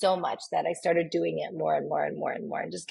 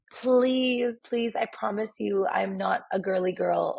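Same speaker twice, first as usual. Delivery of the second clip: pleading; 3 semitones higher, slower than usual. Retold or imitated. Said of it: "And I said".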